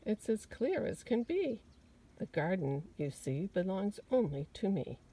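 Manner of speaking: lightly voiced proud gardener; proud owner laying down the law; gardener's boast. Gardener to Missus McGee, proudly claiming the garden. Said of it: "The gardener answered".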